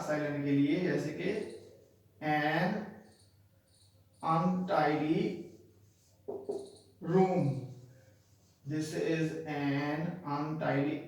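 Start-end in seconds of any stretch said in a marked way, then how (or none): 2.2-5.5 "untidy" starting with a short "uh"; slow "untidy", no y sound at the start; U not said as you. Shown as a demonstration. Teacher showing silent U, "untidy" begun with "uh". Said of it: "यू नहीं बोल रहा". 8.6-11.0 "untidy" opening on a short "uh"; U not said as you. Shown as a demonstration. Teacher showing silent U, "untidy" begun with "uh". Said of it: "यू नहीं बोल रहा".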